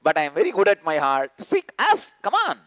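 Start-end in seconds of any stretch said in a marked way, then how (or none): 0.0-1.3 mock excuse. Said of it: "who has not used this word".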